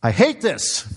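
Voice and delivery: retold anguished outcry to God, pitched high; crying out. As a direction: cry out to God in halting, high-pitched bursts. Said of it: "I remember crying out to the Lord".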